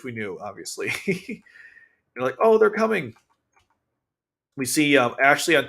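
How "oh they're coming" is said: high-pitched imitated exclamation; mock excitement. Allies spotting the others coming, mock excited. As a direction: call it out like an excited onlooker.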